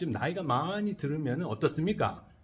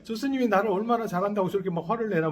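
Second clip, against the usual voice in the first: indignant inner thought; 4 semitones higher, faster than usual. Retold or imitated. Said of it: "뭐 이런 생각이 드는 거예요".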